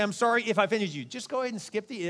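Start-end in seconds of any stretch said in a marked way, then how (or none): 0.0-1.0 mock apology, raised in pitch; insincere apology. Shown as a demonstration. Preacher demonstrating a sorry that's not an apology, insincere. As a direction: toss off a hollow sorry. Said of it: "it's really not an apology at all".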